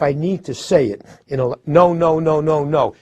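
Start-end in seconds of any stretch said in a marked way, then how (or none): 1.6-2.9 every "no" hit hard, one after another; "no" repeated, each one fully stressed. Shown as a demonstration. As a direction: punch each "no" as its own beat. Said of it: "Each one of them getting a stress".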